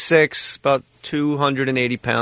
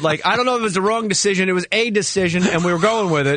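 army general; 5 semitones higher, faster than usual. Retold or imitated. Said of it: "talking to me like a general in the field".

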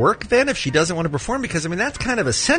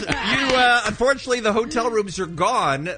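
high, laughing, thrilled news; excited announcement; 7 semitones higher, slower than usual. Real, not acted. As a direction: break the good news, bubbling over.

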